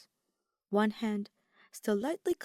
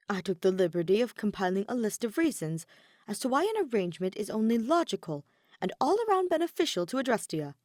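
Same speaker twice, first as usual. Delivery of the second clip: eager, hurried Ferdinand; 3 semitones higher, 3 dB louder than usual. Acted. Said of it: "Ferdinand's voice became steadier now".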